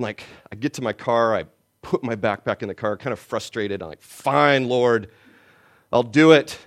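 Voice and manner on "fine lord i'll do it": exasperated giving in. Retold or imitated. Frustrated giving in.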